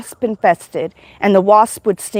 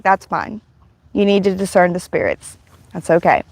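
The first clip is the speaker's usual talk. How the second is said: reassuring; 3 semitones lower than usual. Retold or imitated. Jesus answering her doubt about demons, mildly reassuring. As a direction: gently put a doubter at ease.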